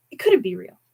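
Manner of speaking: unvoiced disbelieving whisper; a scared hush to himself. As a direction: breathe it out in denial.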